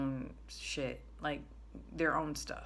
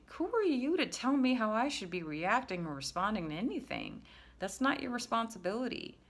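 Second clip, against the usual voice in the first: higher-pitched, challenging comeback; indignant retort; 6 semitones higher than usual. Acted. Retort to people who told me how to feel, indignant. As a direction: push back indignantly, pitch lifted. Acted retort to those policing her feelings.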